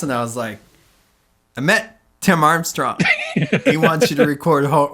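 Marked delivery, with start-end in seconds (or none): 1.6-4.9 giddy, laughing through the news; bursting with it, laughing as you tell them; laughing excitement. Retold or imitated. Merch guy telling his bandmates about meeting Tim Armstrong, laughing excitedly.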